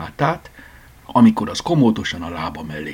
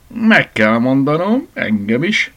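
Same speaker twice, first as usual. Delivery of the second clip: slow, higher, smiling reply; 8 semitones higher, 5 dB louder, slower than usual. Acted. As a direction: smile through the words, slowly. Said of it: "mosolyodott el Franci néni". (mosolyogva, lassan)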